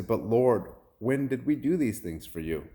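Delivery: high, imploring appeal; astonished question. Retold or imitated. Righteous people ask the Lord, astonished.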